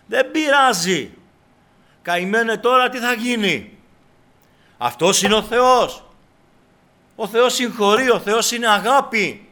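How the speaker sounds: loud, high, drawn-out mock consolation; ear-tickling advice. Preacher mimics someone excusing sin because God forgives, loud mock consolation. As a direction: exaggerate the easy reassurance, high and forceful. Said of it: "Πώς μου γαργαλίζει την ακοή".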